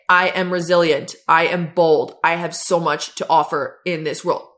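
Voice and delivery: just say the words, no conviction; going through motions. Shown as a demonstration. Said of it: "And you don't just say".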